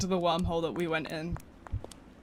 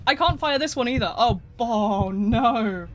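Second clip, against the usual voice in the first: building alarm as the gun fails; frustrated outcry; 2 semitones higher, 6 dB louder, slower than usual. Real, not acted. Gun fails again, rising panic.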